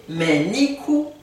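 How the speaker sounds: "mais ni coup" said slowly and firmly; slow model. Shown as a demonstration. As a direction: drag out "ni coup". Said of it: "Je suis fâché". («ni coup» dit lentement)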